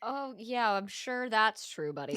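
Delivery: slow, dry disbelief; sarcastic. Real, not acted. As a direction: roll your eyes as you say it. Sarcastic at villain's promises.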